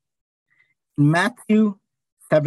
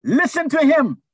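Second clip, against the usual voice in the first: high, ringing call from heaven; hammed-up heavenly command; booming, lifted preacher's voice of God; 9 semitones higher, 4 dB louder than usual. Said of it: "What is the voice saying?".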